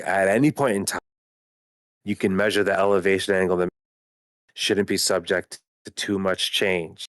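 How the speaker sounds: choppy connection, words dropping out; cutting out like a bad radio; breaking up. Real, not acted. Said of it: "Bro, you're still cutting out".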